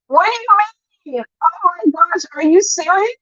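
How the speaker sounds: imitating a shocked reaction to an accusation; mock surprise. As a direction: act out a startled gasp of disbelief, mildly. Retold reaction, quoting Lady Nika.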